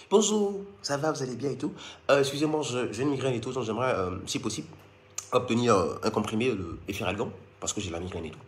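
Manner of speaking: put-on low, soft, overly polite French accent; exaggerated genteel French accent; posh French accent. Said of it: "Eh, mon accent, hein?".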